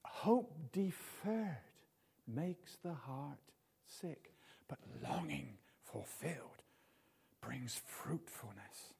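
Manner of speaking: Hope deferred read very slowly, word by word; slow, deliberate reading of Hope deferred makes the heart sick; slow scripture reading. Shown as a demonstration. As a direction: read the proverb slowly and solemnly. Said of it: "It's true".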